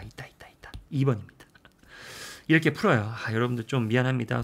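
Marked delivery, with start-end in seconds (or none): 0.0-0.7 whispered to himself; whispering. Real, not acted. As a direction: murmur it under your breath. Finding the answer choice.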